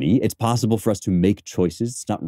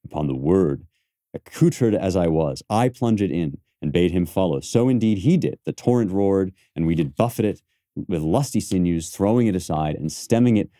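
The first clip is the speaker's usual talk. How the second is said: reciting Cassius. Shown as a demonstration. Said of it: "try again".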